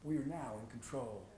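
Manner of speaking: low, soft announcer voice like over the air; radio DJ. Acted. Student seizing the campus radio station, announcing on air.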